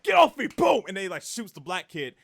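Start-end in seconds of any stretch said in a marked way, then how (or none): 0.0-0.5 higher, louder mock yell; retold shout. Thug yelling at the kid grabbing him, loud mock shout. Big dude shoving the kid off. 0.5-0.8 gunshot boom. Retold or imitated. Imitating the gunshot.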